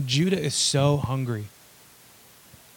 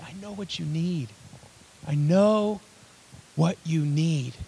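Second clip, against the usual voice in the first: tender reassurance; 3 semitones higher, slower than usual. Acted. God tenderly holding a screaming child.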